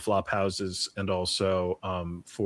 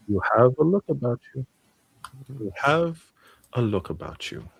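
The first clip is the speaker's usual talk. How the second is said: higher, emphatic character voice; appraising innkeeper; 4 semitones higher, 4 dB louder than usual. Acted. Innkeeper looking over Demetrius, appraising matron voice. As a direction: size him up, falling away at the end.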